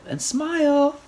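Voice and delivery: loud, high photo call; yelled. A narrator's reading. Friends yelling for the group photo, loud. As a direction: call it out for the camera. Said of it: "they yelled".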